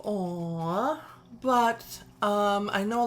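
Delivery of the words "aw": a mild, drawn-out "aw" at something cute; cooing "aw". Acted. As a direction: coo it lightly with a lift at the end. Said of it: "make me go".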